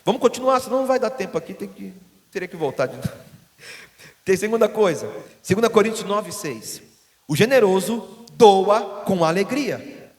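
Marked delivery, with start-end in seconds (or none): 4.2-10.1 loud, rising sermon delivery of scripture; preaching at full force. Acted. Pastor proclaiming Second Corinthians to the congregation, loud and rising.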